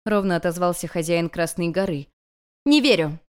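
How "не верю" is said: louder, higher snapped denial; student sharply rejecting master; sharp refusal. Acted. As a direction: cut him off hard. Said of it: "резко оттолкнула его".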